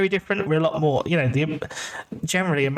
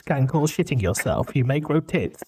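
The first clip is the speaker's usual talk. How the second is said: mock side-effects disclaimer; slower than usual. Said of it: "all the side effects".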